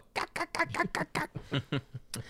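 quiet, high staccato cackle; slap-happy manic laugh, kept soft; maniacal cackle. Shown as a demonstration. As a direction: giggle maniacally in rapid little bursts. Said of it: "where you just get maniacal".

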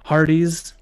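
loud wrestling hype voice; wrestling promo. Pretend. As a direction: bark it like a ring announcer. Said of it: "So we are going to cut a promo".

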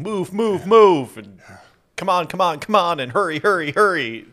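high urgent yelling orders; action movie shouting. Retold or imitated. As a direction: bark orders like an action hero. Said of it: "lots of people saying".

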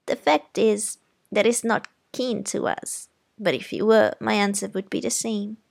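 put-on prim, firm aunt correcting a child; stern aunt. Aunt scolding Scout about Walter, prim and firm. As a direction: lecture the girl politely but firmly.

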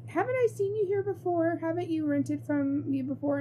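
put-on high, creaky old man voice. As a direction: play a sleepy ancient desk clerk. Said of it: "Very old man".

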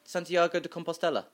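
"Santiago de Compostela" with a light Spanish accent; lightly Spanish "Santiago de Compostela". Shown as a demonstration. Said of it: "bit of a Spanish accent I heard".

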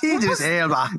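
put-on English accent slipping towards Scottish, laughing; mangled British accent through laughter; Idris Elba. Co-host's worsening Idris Elba attempt, mangled British accent.

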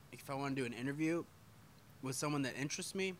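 talking through hiccups; speaking between hiccups. Real, not acted. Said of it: "I have the hiccups real bad".

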